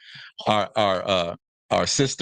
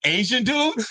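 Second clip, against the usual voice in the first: mock Asian dude; 12 semitones higher than usual. Mocking rival suitors.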